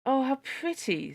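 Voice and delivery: high, gushing delight; admiring crowd. A narrator's reading. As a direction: coo over the tree like a delighted crowd. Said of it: "said everyone".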